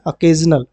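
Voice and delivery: "अकेजनल" with an opening schwa; correct pronunciation. Shown as a demonstration. Teacher repeating the correct reading, "अकेजनल" starting with "uh". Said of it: "क्या पढ़ेंगे".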